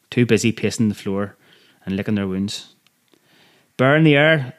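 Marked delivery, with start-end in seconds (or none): 3.8-4.5 higher, louder call down the wing; shouted warning. Acted. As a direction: shout the alarm to the other cells. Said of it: "someone shouted".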